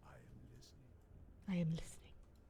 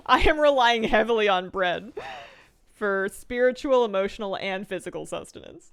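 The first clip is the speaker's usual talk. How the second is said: loud, slow, drawn-out proclamation; mock-earnest declaration; 3 semitones higher, 8 dB louder than usual. Real, not acted. Streamer confessing to chat their dependence on bread, mock-earnest. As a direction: declare it emphatically, word by weighty word.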